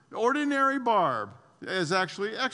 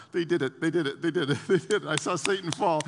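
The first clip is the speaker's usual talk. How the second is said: jumping joy; 2 semitones lower than usual. Retold or imitated. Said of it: "Jesus ... jumping up and down".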